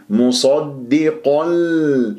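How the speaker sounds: مصدق ال slow, ending in a held l; tanwīn merged into lām. Shown as a demonstration. Teacher models merging without nasal, slow held lām. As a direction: drop the n, land on a long l in مصدق ال. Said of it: "إدغام بغير غنة".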